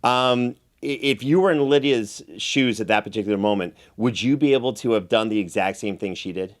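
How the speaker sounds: ordinary talk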